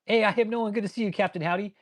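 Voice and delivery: high, cheesy hello; high hammed-up hello to Captain Howdy; mock greeting. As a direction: greet him like a goofy buddy. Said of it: "but when I saw it".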